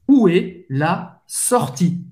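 où est la sortie slowly, word by word; slow French model. Shown as a demonstration. Teacher drills où est la sortie slowly. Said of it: "pode dizer".

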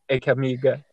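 low, casual imitation of a friend; matter-of-fact. Friend telling him the whole club heard, matter-of-fact. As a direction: break the embarrassing news as if it were nothing. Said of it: "ele falou com uma naturalidade".

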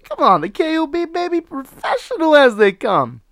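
high, loud hype man voice; hype showman. Acted. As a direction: sell yourself like a showman. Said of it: "I'm still a professional guy".

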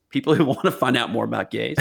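real laugh breaking into a joke; can't hold back the laugh mid-line; laughing through it. Real, not acted. Joking swap of gays for guns.

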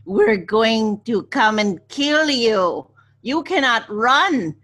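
slow, menacing radio taunt; slow creepy villain. Retold or imitated. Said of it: "That was a very good impression".

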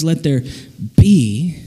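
"Let there", a pause, then "be" with a burst of breath; explosive B. Shown as a demonstration. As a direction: pop the B of "be" after a beat. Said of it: "an explosion of creation".

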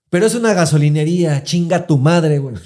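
breaking into laughter mid-line; can't hold the laugh back; laughing through it. Real, not acted. Cracking up while telling his friend the gas-station joke.

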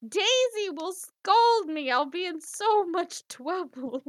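loud, very high, drawn-out cartoon wail; hammed-up duck panic, stammer into a slow whine; Donald. Translating Donald's fear of Daisy, mock-panicked wail. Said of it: "So he's like".

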